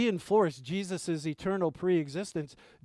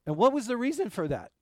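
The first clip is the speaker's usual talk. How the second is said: fervent preaching; 6 semitones higher than usual. Real, not acted. Preacher rising in fervor.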